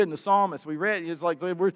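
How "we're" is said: loud, high anguished plea; demanding answers, voice raised high; crying out. Acted. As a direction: cry out in bewildered protest. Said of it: "they're crying out".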